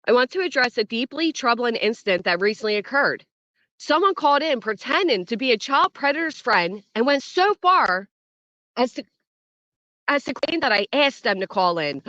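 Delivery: a lightly hammed-up solemn statement; mock-serious reading, barely dramatized; dramatic reading. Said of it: "I'm gonna read this in dramatic style".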